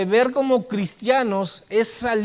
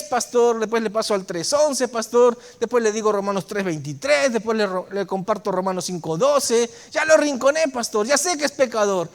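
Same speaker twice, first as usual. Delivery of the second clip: cocky know-it-all; 2 semitones higher than usual. Retold or imitated. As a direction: play the self-assured churchgoer bragging lightly. Overconfident believer boasting to pastor.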